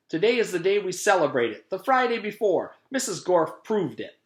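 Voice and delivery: high, loud gleeful boast; boy triumphant after being mocked, high and loud. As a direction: crow that you were right. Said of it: "he said".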